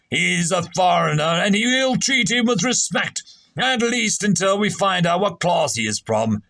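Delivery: pompous captain. Acted. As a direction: bark orders like a stuffy captain. Captain addressing the stranger.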